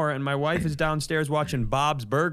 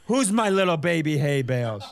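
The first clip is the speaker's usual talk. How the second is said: put-on cooing baby talk to a pet; 2 semitones higher than usual. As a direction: coo like talking to a dog. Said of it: "calling a man with a goatee baby".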